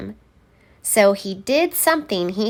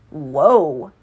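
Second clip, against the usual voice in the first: surprised whoa; 6 semitones lower than usual. Acted. Santa surprised at change.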